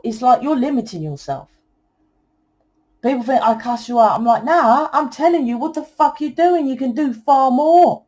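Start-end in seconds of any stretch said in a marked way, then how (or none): 4.4-8.0 higher-pitched, insistent comeback; emphatic retort. Retold or imitated. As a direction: set them straight, pitch raised. Answers people who think she cusses.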